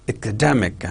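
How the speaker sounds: "Academic" said as a word-stress model; teacher's stress demo of "Academic"; stress on second syllable. Shown as a demonstration. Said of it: "Stress on second syllable".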